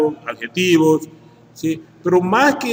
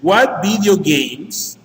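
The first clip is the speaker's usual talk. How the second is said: "What video games?" read out very slowly, word by word; 2 semitones higher, much slower than usual. Shown as a demonstration. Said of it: "Entonces dice".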